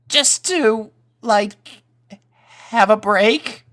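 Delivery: put-on high, hesitant boy voice; nervous young colt. A narrator's reading. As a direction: ask it like a scared kid.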